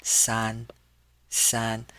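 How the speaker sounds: san held high and level; first tone. Shown as a demonstration. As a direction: keep each "san" flat up high. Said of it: "pronounce this with the first tone".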